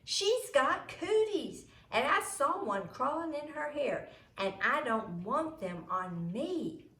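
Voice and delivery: high, loud, slow tattling; disgusted accusation. A narrator's reading. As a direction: accuse her loudly to make everyone hear. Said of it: "Imogene told him".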